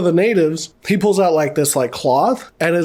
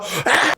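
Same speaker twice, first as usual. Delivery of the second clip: mock startled yelp; 7 semitones higher than usual. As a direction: yelp as if waking to a horror. Voicing man waking up being licked.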